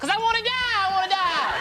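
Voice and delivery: mock exasperated. Driver answering cop about seatbelt, sarcastic high whine. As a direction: wail the sarcasm high, stretching the end.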